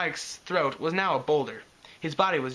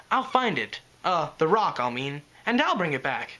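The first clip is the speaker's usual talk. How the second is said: earnest. Acted. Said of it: "he said earnestly".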